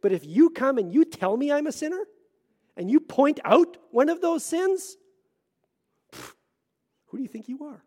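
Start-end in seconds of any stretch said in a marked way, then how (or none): 6.1-7.8 mock indignation. Imitating own indignant reaction.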